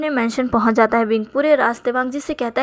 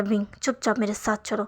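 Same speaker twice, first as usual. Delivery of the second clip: quiet anger; 2 semitones lower, 6 dB quieter than usual. Acted. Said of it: "गुस्से में".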